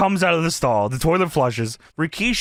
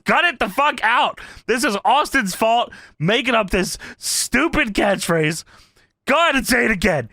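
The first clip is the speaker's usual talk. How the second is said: mildly exasperated retold rant; imitating pissed wrestler; 2 semitones higher than usual. Podcaster retelling wrestler scolding the crowd, mildly mock-angry. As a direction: act out a wrestler's irritated scolding. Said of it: "Kurt is getting pissed".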